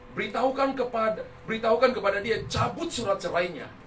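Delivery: firm, emphatic order; retold divine command. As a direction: relay God's urgent instruction with force. Holy Spirit's command, retold by the preacher. (perintah Tuhan yang tegas)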